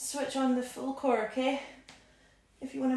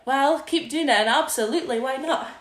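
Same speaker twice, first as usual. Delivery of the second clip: loud encouragement; 5 dB louder than usual. Real, not acted. Coach cheering the class on.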